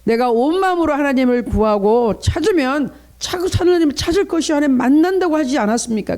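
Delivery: ordinary delivery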